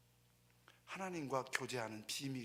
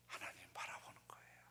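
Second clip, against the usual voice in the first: hushed whisper; 8 semitones lower, 11 dB quieter than usual. Acted. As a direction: whisper it like a secret worth keeping. Quiet key point of sermon.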